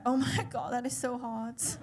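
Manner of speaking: lightly hammed-up infatuated reaction; mock swooning. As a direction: gush as if smitten. Acting out her swooning reaction.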